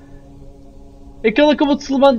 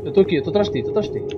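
whispering; 4 semitones lower, 8 dB quieter, faster than usual. Real, not acted. Hiding quietly from monster.

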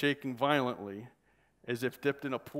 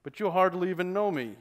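higher, louder affronted protest; insulted; 6 semitones higher, 5 dB louder than usual. Acted. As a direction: sound offended. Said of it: "as though he was insulted".

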